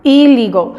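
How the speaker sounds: 'Illegal' with a clear ee at the start; I as Spanish i. Shown as a demonstration. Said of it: "en este caso suena como I".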